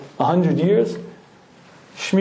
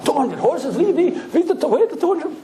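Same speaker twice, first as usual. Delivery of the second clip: put-on high, incredulous old-world voice; bewildered Shmuel; 11 semitones higher than usual. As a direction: squeak out the disbelief. Shmuel amazed by horsepower.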